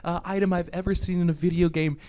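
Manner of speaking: high, loud imitation of outraged gamers; mock angry yelling. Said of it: "like, yelling at it".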